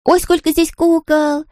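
slow, high astonished gasp; amazed little girl. Acted. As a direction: marvel at all the dolls. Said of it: "только и сказала Майя". (изумлённый детский голос)

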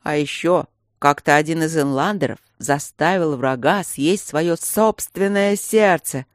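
drawn-out wail, slow and rising; howling. Acted. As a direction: howl it like a ghost. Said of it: "провыл Бернард".

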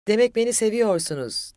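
loud, high exclamation; shouting. A narrator's reading. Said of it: "diye bağırdı".

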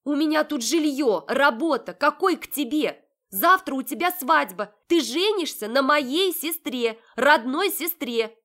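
high, loud protest, slowing at the end; indignant outburst. Acted. Heroine protesting to Marat that he weds her sister tomorrow. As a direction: hammer home each point.

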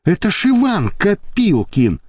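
astonished curse, pitch up; amazed swearing. A narrator's reading. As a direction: blurt it out, caught off guard. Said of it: "изумлённо ругнулся".

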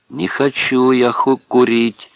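put-on high, loud childish whine; whining. A narrator's reading. Prisoner refusing a shared smoke, whining. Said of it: "захныкал Амерс".

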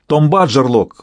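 sharp shout of a name. Acted. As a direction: call out sharply. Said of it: "выкрикнул лорд Голден". (резкий окрик)

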